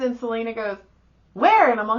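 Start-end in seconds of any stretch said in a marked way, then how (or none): 1.3-1.7 high, loud "where"; retold excited query; eager question. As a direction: ask urgently, scanning the crowd. Companion searching the crowd, retold.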